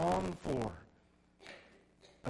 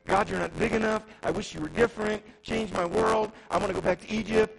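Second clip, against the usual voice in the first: louder, whiny complaint to God; grumbling Israelites; 4 semitones higher, 7 dB louder than usual. Acted. Israelites in the wilderness complain to God, whiny. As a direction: whine like ungrateful wanderers.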